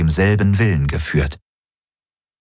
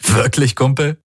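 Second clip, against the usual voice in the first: amused; 7 semitones higher than usual. Acted. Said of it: "Galen sah ihn lachend".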